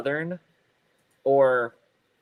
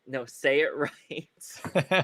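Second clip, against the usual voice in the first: slow self-correction; 2 semitones higher, much slower than usual. Retold or imitated. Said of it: "I'm like".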